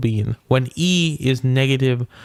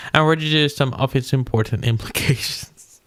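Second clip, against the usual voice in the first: reading with a laugh breaking in. Real, not acted. Reader losing it over the paper's concluding remarks, laughing. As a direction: break into a laugh on the last words. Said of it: "I don't know why I'm laughing".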